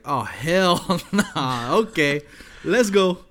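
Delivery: laughing mock refusal. Laughing refusal, retold own reaction.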